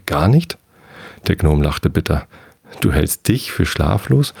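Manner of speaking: calm bedtime reading of a novel with lightly voiced characters; story narration. A narrator's reading. Podcaster reading Moers chapter to sleepy listeners, calm storytelling.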